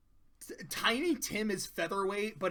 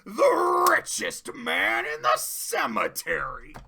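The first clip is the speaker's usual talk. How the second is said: ominous ghost voice; 10 semitones higher, 7 dB louder, slower than usual. Retold or imitated. Ghost answers Scrooge at the grave.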